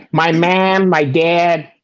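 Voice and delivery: imitated Chicago accent. Host shows how Chicago women talk, imitated Chicago accent. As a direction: mimic a Chicago native's vowels. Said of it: "a girl with a Chicago accent".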